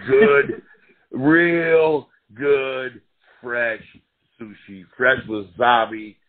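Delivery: loud, laughing savor of each word; laughing relish. Pretend. Fighter imagining his sushi reward, laughing loudly with relish. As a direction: gloat happily over the feast to come.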